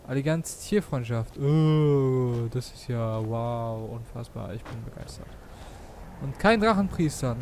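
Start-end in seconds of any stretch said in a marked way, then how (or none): 1.4-5.3 flat sarcastic praise; mock enthusiasm, deadpan. Real, not acted. Unimpressive loot reward.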